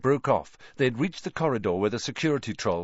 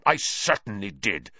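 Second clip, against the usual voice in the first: furious; 4 dB louder than usual. Acted. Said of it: "his face contorted with fury".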